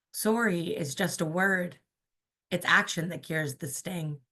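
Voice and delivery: spoken-word poet reading to a crowd; poem reading. Acted. Reads poem Anvil.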